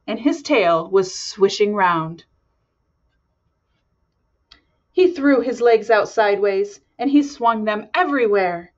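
lively storybook narration; reading to children. A narrator's reading. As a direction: read it like bedtime story. Reads picture book aloud.

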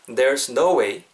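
"There's no way" spaced out slowly; slowly for repeating. Shown as a demonstration. Teacher asks learners to follow along, slow demonstration. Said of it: "제가 천천히 해볼게요".

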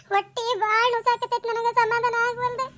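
to Sharadamma, a hammed-up slow moan; fake suffering. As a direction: plead weakly with a faked ache. Faking pain to Sharadamma.

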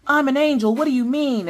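high, loud loopy innocent voice; drugged husband. Retold or imitated. Wife imitating her sedated husband, high loopy voice. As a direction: play the dazed man insisting he's an angel.

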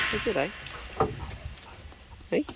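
high teasing lilt to the dog; playful dog talk. Real, not acted. Owner teases his dog with a treat, high and playful.

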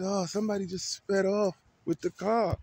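high, far-off voice of the woman at the pump; lady at the pump. Retold or imitated. Woman tells him his car just sped off, high put-on voice. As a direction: voice her like a high-pitched onlooker breaking the news. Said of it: "She said".

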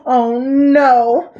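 loud, drawn-out dismay; horrified gasp. A narrator's reading. Boy dreads captain's plan, gasping. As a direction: groan it out aghast. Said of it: "gasped Bartholomew".

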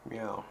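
a lightly voiced cat meow; mock meow. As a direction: meow like a cat begging for catnip. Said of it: "I'm gonna start meowing".

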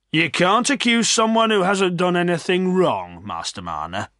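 put-on high-pitched old villager voice; reproving old man. A narrator's reading. Old Mister Macey rebuking Silas, reproving. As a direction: reprove him, falling away on the name.

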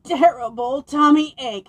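loud, moaning howl; the dragon howls in pain. Acted. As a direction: howl with a sore belly. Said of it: "howled the dragon".

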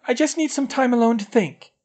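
high, hitching tearful plea; a crying girl begging her friend to leave; voice hitching with tears. A narrator's reading. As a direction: plead through catching sobs. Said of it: "her voice hitching with tears".

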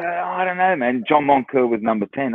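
high, fed-up protest; exasperated. Retold or imitated. Player fending off angry teammate, high and exasperated. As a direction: throw up your hands at the teammate. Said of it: "I go".

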